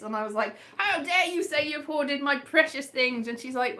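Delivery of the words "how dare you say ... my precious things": higher-pitched mock indignation; retold upset outburst. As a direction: re-enact being affronted, pitched up. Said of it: "I got really upset".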